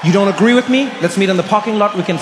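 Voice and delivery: hammed-up indignant shout; mock challenge. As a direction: pick a playful fight with the crowd.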